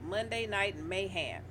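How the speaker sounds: Mayhem said "may-ham", drawn out; country twang, Mayhem ending in "ham". Real, not acted. Host reading the episode's topics, country twang on Mayhem. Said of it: "Why do you say it like that?".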